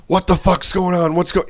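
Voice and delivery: high, dazed mock yell with a foreign-sounding voice; confused yelling. Concussed gunner running around, a high dazed yell. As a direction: imitate a concussed buddy shouting nonsense. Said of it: "just yelling".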